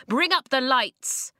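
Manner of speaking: loud sharp order; loud command. A narrator's reading. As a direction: bark the order.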